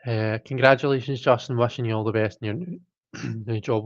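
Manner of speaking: hoarse, catching throat. Real, not acted. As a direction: voice going hoarse, clearing throat. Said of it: "What is wrong with my throat?".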